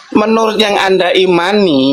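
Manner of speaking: slow, careful repeat; slowly. Real, not acted. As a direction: lay each word out slowly. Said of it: "Saya ulangi pelan-pelan". (diulang pelan-pelan)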